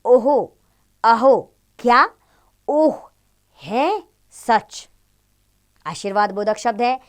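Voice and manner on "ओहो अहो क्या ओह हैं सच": surprised exclamations. Shown as a demonstration. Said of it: "विस्मयबोधक शब्द हैं".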